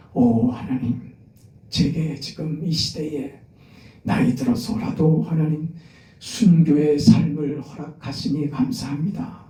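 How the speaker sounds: slow, devout prayer to God; slow earnest prayer. Acted. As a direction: pray it slowly, from the heart. Preacher voices a prayer.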